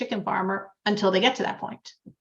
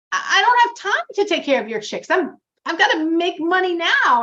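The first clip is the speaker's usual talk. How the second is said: higher, rushed, worried pleading; a farmer panicking over his bills, higher and quicker; anxious pleading farmer; 7 semitones higher, 3 dB louder than usual. Retold or imitated. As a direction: plead that you can't make ends meet. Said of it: "the chicken farmer says".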